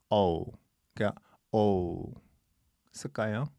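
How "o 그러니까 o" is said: O as a drawn 'oh-oo' diphthong; correct gliding O. Shown as a demonstration. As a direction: demonstrate O gliding into w. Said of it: "O가 아니고 O".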